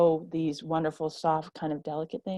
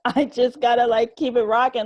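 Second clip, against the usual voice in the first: louder, higher with a laugh; real laugh, higher and louder; 7 semitones higher, 8 dB louder than usual. Real, not acted. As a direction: laugh it off breezily. Laughs at own situation.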